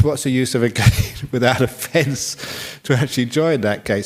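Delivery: laughing through the words; amused laughing. Real, not acted. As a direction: chuckle at the absurdity while talking. Joking about gate without fence.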